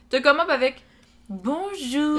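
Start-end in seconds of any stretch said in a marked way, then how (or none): 1.3-2.2 chipper rising bonjour; perky voicemail greeting. Retold or imitated. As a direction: sing out a cheerful hello.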